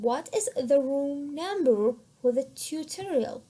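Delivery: teacher modelling stress on "room number" and "tutorial"; stressed key words. Shown as a demonstration. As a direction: stretch "room number", then fall on "tutorial". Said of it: "We must say them in a louder and longer voice".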